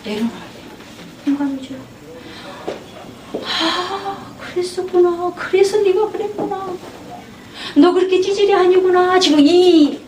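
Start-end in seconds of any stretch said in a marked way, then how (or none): 3.4-9.2 gently raised, understanding voice; soothing, validating counselor voice; warm, accepting tone. Shown as a demonstration. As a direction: tell the boy he's fine, kindly. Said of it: "뉘앙스를 제가 준 거죠".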